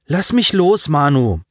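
indignant protest. Acted. Pulling free from a grip.

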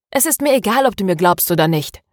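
mildly irritated retort, starting high; a touch of annoyance, brushing him off. Acted. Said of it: "sagte sie gereizt".

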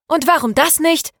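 high, indignant challenge; snapping angrily. A narrator's reading. Maria challenges her friends who rejected her idea, snapping angrily. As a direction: fire the question back crossly. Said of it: "fauchte Maria".

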